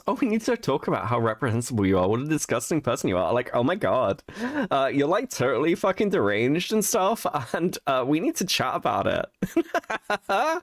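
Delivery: high, sing-song mocking lecture; mock prissy scold. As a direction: parody a smug moderator scolding you. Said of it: "Listen to how, how happy she sounds".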